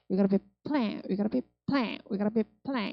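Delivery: "we gotta be plan" with playing shrunk to "pleng"; reduced PLAYING in phrase. Shown as a demonstration. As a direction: run "plan" as one syllable after "we gotta be". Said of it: "이렇게 하셔야 돼요". (plan을 플랭처럼 줄여서)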